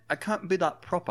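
put-on proper British accent. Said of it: "go back to British".

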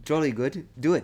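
a quick, hammed-up posh British "Jolly good"; tossing off a jokey English toff phrase; mock British accent. Teasing her cohost with a mock British accent. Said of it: "Oh, that's, that's terrible".

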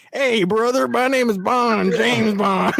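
put-on lightly Southern-accented spy introduction; half-hidden Southern twang; mock Southern accent. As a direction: imitate a poorly hidden Southern accent, drawing out the name. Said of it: "trying to hide, like, their southern accent".

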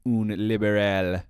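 slow dumb grunting bro voice; frat bro. Pretend. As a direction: grunt it like a dim caveman bro. Mocking banter about a photo.

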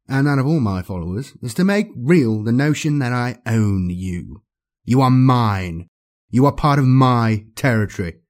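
cold, commanding dark lord; menacing overlord. Acted. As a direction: speak down to a doomed servant. Archon threatens his servant.

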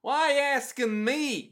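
old cartoon farmer voice, high and whiny; old man voice. Shown as a demonstration. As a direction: nail the voice of the cranky old man. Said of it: "Yeah, that's his voice".

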